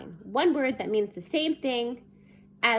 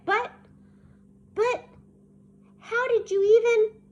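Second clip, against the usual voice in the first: higher, louder, halting objection; flustered protest; 11 semitones higher, 6 dB louder than usual. A narrator's reading. Child baffled at being found out, flustered. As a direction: stammer out a baffled question, pushing up high.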